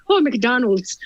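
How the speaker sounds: lightly put-on Irish lilt; attempted Irish accent. Actor practising on roadside signs, makeshift Irish accent. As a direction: read a sign in a rough Irish accent. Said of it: "trying to get this accent in my mouth".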